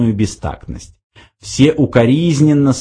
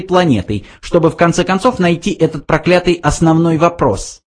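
high little mouse voice; explaining mouse; 8 semitones higher than usual. A narrator's reading. Mouse addresses the Earth creature, high explaining voice. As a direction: lay out the matter, pitched high.

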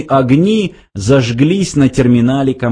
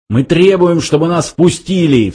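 higher, emphatic demand; indignant cry; 6 semitones higher than usual. A narrator's reading. Younger intruder demands entry, indignant cry. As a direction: cry out a protest, pitch raised. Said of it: "вскричал младший из них".

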